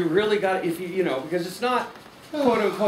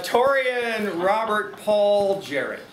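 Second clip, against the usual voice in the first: slow, drawn-out name announcement; announcing; much slower than usual. Real, not acted. Host introduces the next person by full name, announcing slowly. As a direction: stretch each name out like an announcer.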